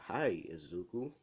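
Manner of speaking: mildly nervous, slow greeting; hesitant hello, rising uncertainly; a touch of bewildered fear; confused and scared. Retold or imitated. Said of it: "confused and scared at the same time".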